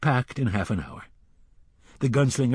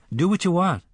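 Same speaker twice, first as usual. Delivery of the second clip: put-on higher and louder, a boy's sulky retort; hurt boy snapping at the gunslinger; 7 semitones higher, 4 dB louder than usual. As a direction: throw it back at him like a hurt kid. Boy snaps back at the gunslinger.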